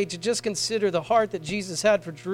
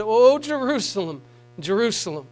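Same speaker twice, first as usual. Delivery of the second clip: tearful lament; 2 semitones higher, 4 dB louder than usual. Retold or imitated. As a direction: cry it out and then let it sink. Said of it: "tears in his eyes when he said".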